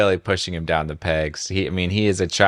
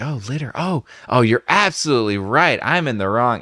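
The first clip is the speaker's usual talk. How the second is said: mock contrite; 5 semitones higher than usual. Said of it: "a super funny response to be like".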